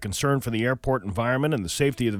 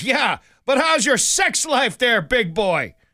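mock, shrill, slow, sneering, scoffing leprechaun voice; 12 semitones higher, 5 dB louder than usual. Telling a joke, voicing the leprechaun: scoffing leprechaun. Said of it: "the leprechaun scoffs and goes".

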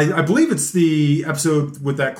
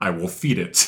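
very low, deep warrior voice, bottom of range; 8 semitones lower, 4 dB quieter than usual. Retelling a Star Trek scene where Worf answers Data: Worf voice. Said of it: "That's a great Worf impression".

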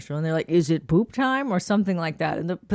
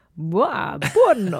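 put-on Transylvanian-style Romanian accent; 4 dB louder than usual. Joking around with a co-speaker, in a Transylvanian or Romanian accent. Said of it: "I feel like I'm doing like Transylvania or some Romanian accent".

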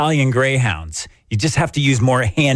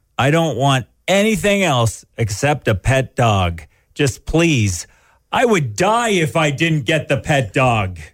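mock pleading, begging child voice; 2 semitones higher than usual. Acting out a child begging Santa for a dog: imitating a child pleading. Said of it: "She says it again".

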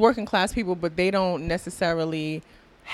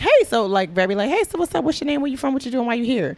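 mock friendly, light, pitched-up, casual, unaggressive tone; 6 semitones higher than usual. Describing how people there start a conversation, imitating their non-aggressive questioning. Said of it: "not in aggressive, like in a bad way".

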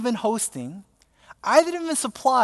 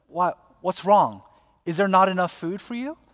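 usual speaking voice

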